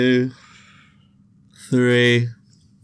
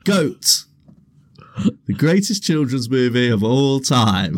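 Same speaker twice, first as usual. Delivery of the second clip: announcer style; 3 semitones higher than usual. Acted. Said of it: "repeating the announcement".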